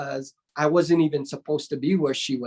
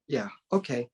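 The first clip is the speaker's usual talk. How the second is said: imitated dismissal; 4 semitones lower than usual. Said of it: "and just turns around".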